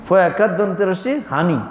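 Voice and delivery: ফয়াকার দন্ত রসি হানি in Noakhali dialect. Shown as a demonstration. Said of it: "কারা কয়? নোয়াখালী বলে না?".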